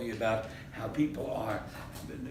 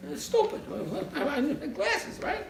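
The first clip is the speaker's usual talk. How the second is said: laughing; 12 semitones higher than usual. Real, not acted. Comic mix-up in tower story.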